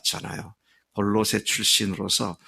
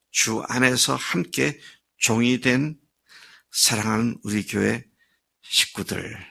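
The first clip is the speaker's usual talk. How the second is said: deliberate reading. Shown as a demonstration. Preacher rereads the verse for the church family, deliberate reading. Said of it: "이렇게 읽어보겠습니다".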